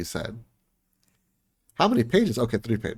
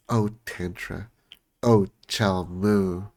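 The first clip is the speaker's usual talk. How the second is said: mock swooning lovers; much slower than usual. Lovers' moans in novel.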